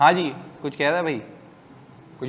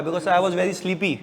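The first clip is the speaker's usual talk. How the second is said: put-on affected English accent; much slower than usual. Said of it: "ऐसा मुंह टेढ़ा करके तो नहीं बोलूँगा".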